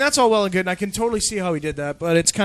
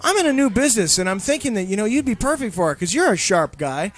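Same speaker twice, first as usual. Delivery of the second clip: higher, lightly voiced sales pitch; a touch of the smooth recruiter; salesman pitch; 4 semitones higher than usual. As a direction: friend pitching his new business. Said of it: "He says".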